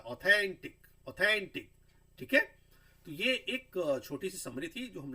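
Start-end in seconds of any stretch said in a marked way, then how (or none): 0.0-1.7 ऑथेंटिक twice, loud, थैन stressed; teacher repeating the stressed word; stress demo. Shown as a demonstration. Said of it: "थैन पे आ रहा है".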